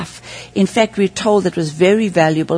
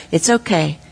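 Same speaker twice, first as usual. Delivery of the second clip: tender; 3 semitones lower, slower than usual. Retold or imitated. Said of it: "and he says".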